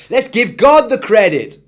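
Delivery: put-on boy yelling with sudden joy. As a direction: burst out with the idea. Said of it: "yelled Eric".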